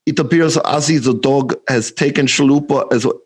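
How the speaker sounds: put-on botched Russian accent turning German; Russian accent gone German. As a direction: aim for Russian, land in German. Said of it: "I went German too".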